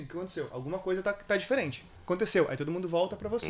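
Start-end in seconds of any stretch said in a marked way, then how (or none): 0.0-2.5 puzzled audience. Retold or imitated. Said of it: "todo mundo vai fazer assim".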